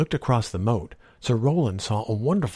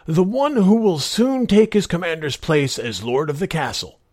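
put-on tempting old magician; 6 semitones higher, 3 dB louder than usual. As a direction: show off the sword, awed. Disguised giant tempts knight.

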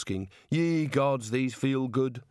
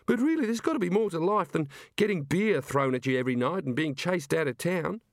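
put-on much higher, tearful-sounding young woman; upset Neilette; 6 semitones higher than usual. Neilette, crying on the luggage, complains to Rincewind, high and upset. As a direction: pour out her woes, near tears.

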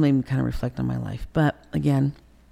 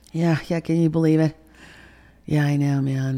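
smart-ass phone chat; 4 dB louder than usual. Retold or imitated. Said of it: "hearing him be smart ass".

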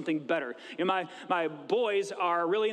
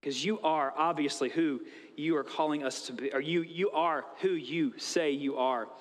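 sincere; 4 semitones lower than usual. Retold or imitated. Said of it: "His response is".

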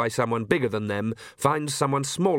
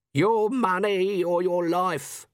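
swaggering gentleman highwayman; 7 semitones higher, much slower than usual. Acted. Highwayman demand.

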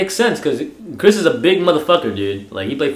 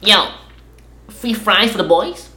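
put-on cocky teens; 6 semitones higher than usual. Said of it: "they're like".

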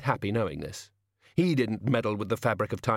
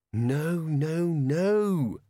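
put-on higher, rough old man; grumbling old servant; 5 semitones higher, much slower than usual. A narrator's reading. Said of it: "said Albert".

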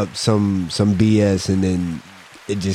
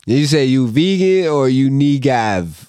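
mock challenge; 5 semitones higher, 3 dB louder than usual. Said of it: "I'm like".

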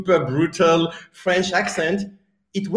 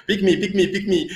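higher-pitched mock-eager plea; eager volunteer; 6 semitones higher than usual. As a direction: play the keen one begging to be chosen. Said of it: "that guy that is like".

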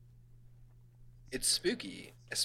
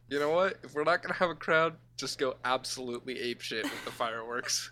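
excited; 2 semitones higher, 4 dB louder than usual. Retold or imitated. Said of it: "And he goes".

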